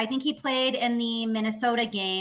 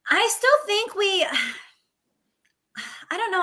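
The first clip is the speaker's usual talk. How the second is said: sighing whisper; 9 semitones higher than usual. Real, not acted. Torn, sighing over keeping him.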